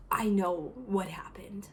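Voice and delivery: slow, soft whispered verdict; dad's quiet dreaded announcement; ominous hush. Retold or imitated. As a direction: drop to a whisper for suspense.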